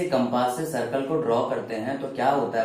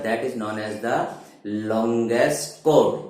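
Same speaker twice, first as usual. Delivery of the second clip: slow dictation; 3 dB louder, much slower than usual. Shown as a demonstration. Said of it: "teacher dictates definition".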